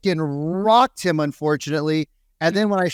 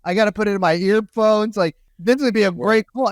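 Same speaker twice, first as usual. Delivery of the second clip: higher, mildly gleeful retelling; retold eager anticipation; 4 semitones higher than usual. Coach about to hear a disastrous call, mock excitement. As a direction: act out relishing what's coming.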